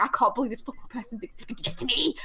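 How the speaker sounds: worked-up retold rant; angry disbelief. Fuming inwardly at the man's behaviour, retold anger. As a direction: vent in outraged disbelief. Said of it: "I'm just so angry".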